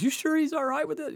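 high, fretting lady voice; mock-prissy counselor doubting the kids; doubtful counselor. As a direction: play the hesitant school counselor.

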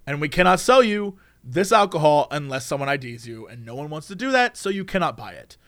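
low, measured, softening official voice; firm refusal. Acted. Store staff refusing alcohol sale, firm and low. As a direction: lay down the rule, low and final.

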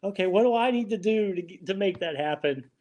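high, baffled mock disbelief; retelling his own baffled reaction, high and incredulous. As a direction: play the puzzled creator asking how. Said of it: "and I'm like".

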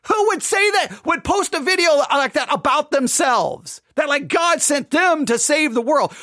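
high-pitched exasperated rant at the church; pretend outraged yell. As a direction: demand it in disbelief, voice climbing high. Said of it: "scream, yell, and say".

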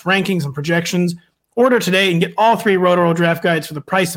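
quick sponsor read; hard sell ad. Acted. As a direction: rattle off the ad copy. Host reads sponsor ad.

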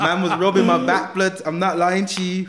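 laughing through the words; can't stop laughing while telling it. Real, not acted. Laughing at his own story.

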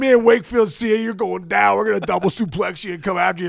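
a ballplayer's mock promo on a voicemail, loud and boastful; wrestling promo. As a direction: hype it like a wrestler calling out a rival. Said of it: "a whole promo".

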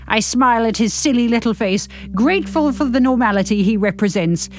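measured novel-reading voice; story narration. A narrator's reading. Narrator reading a novel to podcast listeners, measured narration. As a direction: read the story out with care.

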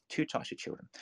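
hushed whispered repeat; soft secretive whisper of the same words. Shown as a demonstration. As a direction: drop to a whisper for effect. Repeats phrase, second take whispered.

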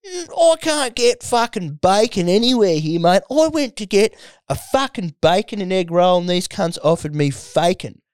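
high mock Aussie bloke rant; mocking a cranky radio caller; imitating an ocker bloke. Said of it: "He's like".

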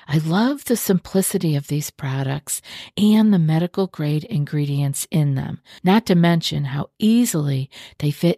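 upbeat sponsor read. Acted. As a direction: read the ad like a host.

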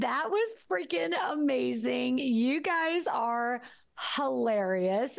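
delighted, high and drawn out; overjoyed, almost shouting; thrilled exclamation. Real, not acted. Reacting to the jingle.

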